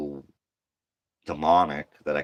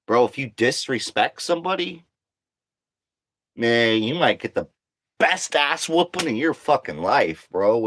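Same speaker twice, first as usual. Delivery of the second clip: much higher and louder, fired up; ranting about disrespect, higher, louder and heated; heated warning; 7 semitones higher, 5 dB louder than usual. Real, not acted. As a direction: warn them hard, voice climbing.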